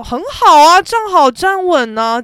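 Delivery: retold yell. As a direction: call it out high, stretching it a little. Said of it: "我就大叫". (稍微提高嗓门、转述大叫)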